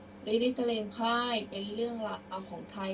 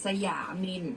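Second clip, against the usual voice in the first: careful model reading; projected opening, settling at the end; prose-style recitation; 3 dB louder than usual. Shown as a demonstration. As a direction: read out verse as measured prose. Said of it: "เดี๋ยวครูจะอ่านเป็นร้อยแก้ว".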